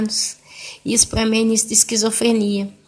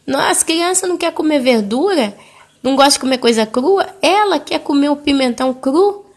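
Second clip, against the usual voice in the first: higher-pitched mild protest to mom; retold remonstrance; 5 semitones higher than usual. Daughter pleading her child's case to her mother, mild remonstrance.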